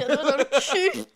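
loud, high, breaking into laughter; laughing out. Real, not acted. Narrator reading the crude line to her friend, laughing loudly. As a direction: read it while cracking up.

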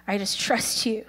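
softly surrendering to God; a quiet, understated prayer; retold prayer. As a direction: pray it gently, letting go. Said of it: "he said, "God, I surrender".

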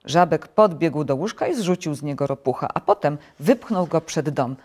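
plain reading voice

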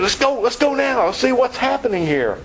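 high, eager shepherds urging each other on; keyed-up urging. Retold or imitated. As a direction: hurry them along, all keyed up. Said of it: "They're all keyed up".

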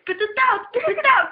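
mild mock rage. Retelling the meth head yelling at her brother, mild mock rage. Repeats the angry quote.

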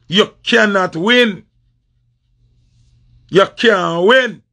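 slowed right down, each word spaced; emphatic slow warning to a rival; slow, drawn-out taunt. Real, not acted. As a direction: lay it out slowly so it lands as final. Repeats the taunt slowly.

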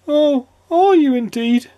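gloomy squeaky sniff; sniffy squeaky voice. A narrator's reading. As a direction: sniff it out, unimpressed. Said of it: "sniffed the person".

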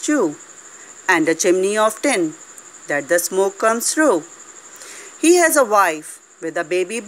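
measured poem recital with pauses between phrases; poem recitation. Shown as a demonstration. Teacher showing children how to recite a poem, measured recitation. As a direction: recite it line by line for pupils.

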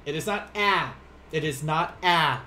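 "ah" said as the short A of "cat"; wrong vowel shown. Shown as a demonstration. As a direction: stress "ah" as a flat English "aa". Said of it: "makes, like, an O-ish sound".

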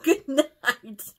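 mock sinister whisper of the friend; creepy goodnight. Narrator voicing creepy friend's goodnight, mock menacing.

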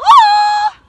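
loud, high Tarzan call; Tarzan recall. Retold or imitated. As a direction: shout the recall call up into the air. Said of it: "That's our recall".

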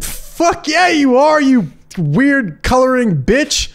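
high-pitched, mock-supportive parent; excited, slowing on the final insult; hyped-up encouragement. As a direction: cheer the kid on with gusto. Acted over-supportive parent cheering a son.

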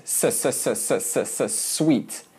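unvoiced hissed S, slow into sweet; model s. Shown as a demonstration. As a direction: hiss the s then say sweet slowly. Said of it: "like, well, sweet".

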